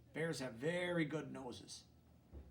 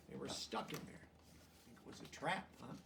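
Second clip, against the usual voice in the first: hushed aside; whispering; 6 dB quieter than usual. Real, not acted.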